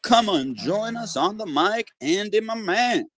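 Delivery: hyped announcer intro. Acted. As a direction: bring the guest on like a boxing ring announcer. Host introduces the guest.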